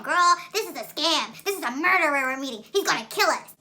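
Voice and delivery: high, dramatic mock panic; imitated alarmed friend.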